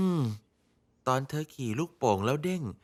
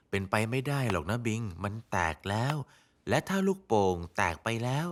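gentle; 5 semitones lower than usual. Acted. Comforting child over popped balloon.

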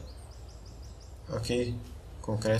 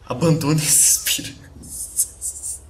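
ominous; 5 semitones higher, 4 dB louder, much slower than usual. Shown as a demonstration. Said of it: "spooky graffiti message read out".

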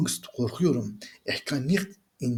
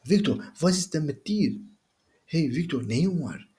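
concerned calling out; 6 semitones higher than usual. Acted. Friend calls out, concerned.

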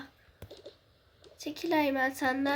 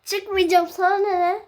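defiant shout; 3 semitones higher, 7 dB louder than usual. Pretend. Refusing during acted quarrel.

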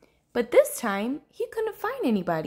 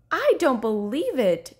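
drawn-out, emphatic protest; indignant disbelief; 3 semitones higher, 4 dB louder than usual. Acted. Rainbow Fish found by Little Blue, indignant disbelief. Sore loser refusing to accept it.

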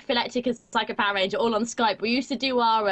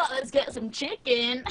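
mock American accent; slower than usual.

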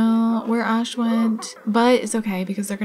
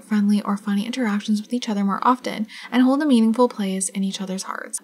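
fast whispered read; faster than usual. Real, not acted. Reading the game's dynamic description, whispered. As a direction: rush the text under your breath. Reads game text quietly.

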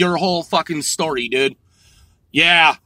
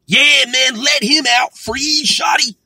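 higher mocking supporter chant, last words drawn out; mock cheering; 5 semitones higher than usual. Mocking those who propped Shotty up, mock rallying cry. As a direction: imitate fans rallying, pitched up.

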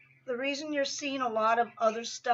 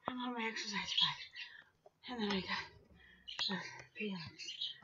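hushed whisper; 2 semitones lower, 10 dB quieter, slower than usual. Real, not acted. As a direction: drop to a whisper. Whispers about bike and peanuts.

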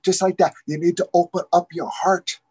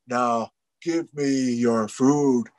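drawn-out, lower, commanding; slow low demand; 4 semitones lower, much slower than usual. Acted. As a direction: lay it down slowly and firmly. Raven demands food again.

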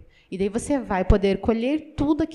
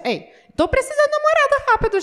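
high, fast, demanding prayer; impatient, high-pitched, fast nagging; impatient plea; 12 semitones higher, 4 dB louder, faster than usual. Retold or imitated. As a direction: hurry God up like a spoiled child. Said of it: "Ah, Deus".

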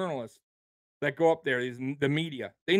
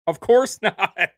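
slow, louder, with a laugh between "course" and "not"; laughing, drawn out; 4 dB louder, much slower than usual. Real, not acted.

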